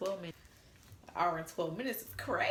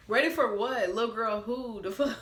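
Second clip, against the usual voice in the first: louder, higher, indignant question; 4 semitones higher, 4 dB louder than usual. Real, not acted. Answering his you-ain't-ready text, offended and loud. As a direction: fire back, offended and loud.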